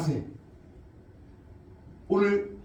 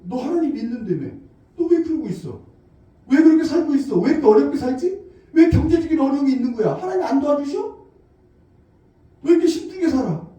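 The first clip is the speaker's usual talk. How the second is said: louder, nagging questions; family members pressing, louder; reproachful relatives; 5 dB louder than usual. Retold or imitated. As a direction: scold the struggling believer. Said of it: "가족들이나 아니면 친지들이".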